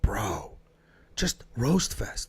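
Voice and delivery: hushed whisper; whispered punchline. Real, not acted. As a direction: drop to a breathy aside. Aside about family roasting.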